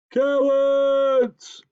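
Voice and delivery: high, loud delighted cry; delighted moose. Acted. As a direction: moose overjoyed.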